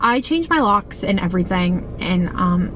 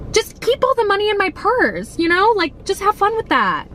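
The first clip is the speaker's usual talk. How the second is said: sarcastic; 11 semitones higher than usual. Real, not acted. Sarcastic rant at the man.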